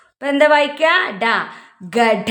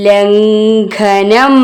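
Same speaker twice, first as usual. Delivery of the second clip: ലംഘനം very slow and louder, humming the nasal; loud, drawn-out model reading of ലംഘനം; reading demonstration; 5 dB louder, much slower than usual. Shown as a demonstration. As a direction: stretch every syllable of ലംഘനം. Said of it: "ഇപ്പൊ എന്താ വായിക്ക?".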